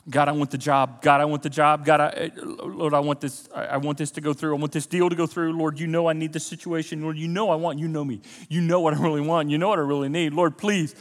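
insistent, repetitive begging to God; pleading prayer. Shown as a demonstration. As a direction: keep pressing God with run-on requests. Models insistent petitioning in prayer.

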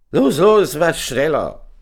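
high, loud urging call; barked "get moving" shout; shouted order. A narrator's reading. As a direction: hurry them along loudly. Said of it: "rief Vitius".

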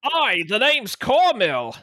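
lightly voiced Canadian lumberjack, high and slow; a hint of a central Canadian lumberjack; gruff booming lumberjack. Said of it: "I'm gonna do a lumberjack".

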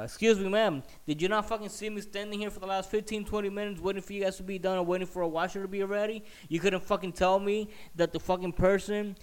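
high, loud indignant outburst; re-enacted angry confrontation; losing it. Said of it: "that's when the fuck I lost it".

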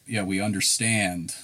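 slow, rising to loud mock judge agreement; drawn-out hammed-up judge nodding along; mock sympathetic judge. Retelling the joke, the judge slowly agrees, hammed up.

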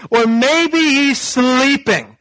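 high, drawn-out taunt; mocking. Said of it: "Just totally mocking them".

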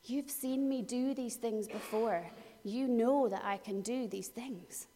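soft, unhurried reassurance; gentle encouragement. Acted. Jesus reassuring frightened disciples, soft and unhurried. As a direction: coax them kindly. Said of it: "what he's saying is".

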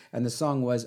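usual speaking voice

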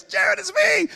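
high, drawn-out cry of recognition; expressive excited greeting. Retold or imitated. Expressive man greeting the preacher at the door, excited. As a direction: imitate a thrilled old acquaintance calling out. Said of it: "he's so expressive".

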